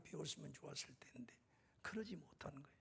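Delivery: regretful whisper; whispered admission of shame. Real, not acted. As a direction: let it fall to a breath. Confessing regret about past.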